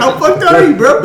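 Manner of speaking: very high, loud comic voice; mock incredulous reply. Game master jokes as offended bard, high mock disbelief. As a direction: tease in a hammed-up squeal.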